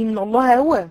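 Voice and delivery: إن الله هو run together, ha blurred; wrong rushed reading. Shown as a demonstration. Teacher shows the common mistake to the girls. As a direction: blur the ha in إن الله هو. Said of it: "خطأ".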